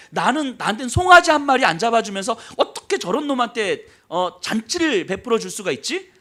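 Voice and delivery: 화내는 형. Acted. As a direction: complain indignantly as the slighted brother. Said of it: "하면서 막 화를 내는 거예요". (억울하고 화난 형처럼 언성 높여 따지기)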